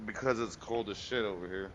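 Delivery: stuffy nose voice; stuffed up. Real, not acted. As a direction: talk through a blocked nose. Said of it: "why do you sound like you're stuffed up".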